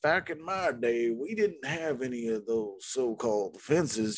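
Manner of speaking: lightly voiced old-timer; a hint of a grumpy old geezer; old prospector.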